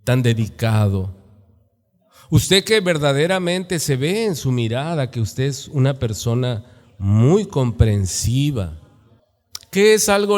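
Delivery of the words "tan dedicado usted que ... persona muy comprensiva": mock flattery. Shown as a demonstration. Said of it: "¿Qué es una palabra lisonjera".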